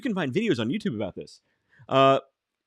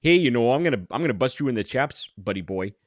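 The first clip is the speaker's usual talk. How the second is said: mock Wisconsin accent; 3 semitones lower than usual. Host showing Wisconsin accents can't sound tough, mock Wisconsin threat. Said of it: "a Wisconsin accent, you can't sound tough".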